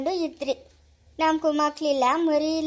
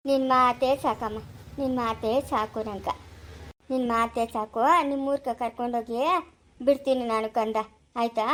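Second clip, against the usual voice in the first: tender; 3 semitones lower than usual. Acted. Widow thanks the child and promises to take her home, tender. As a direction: soothe the child gently.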